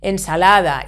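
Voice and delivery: Ensalada stressed on LA; Ensalada, weight on la; penultimate stress. Shown as a demonstration. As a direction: stress the next-to-last syllable of Ensalada. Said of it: "we stress the penultimate syllable".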